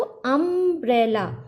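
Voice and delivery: drawn out slowly, each sound apart; slow motion. Shown as a demonstration. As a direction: stretch the word अम्ब्रेला syllable by syllable. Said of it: "अगर अम्ब्रेला को slow motion में बोलेंगे".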